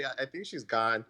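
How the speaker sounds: slow, soft deadpan; quiet deadpan. Retold or imitated. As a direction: say it gently and slowly. Imitating Tom, slow quiet.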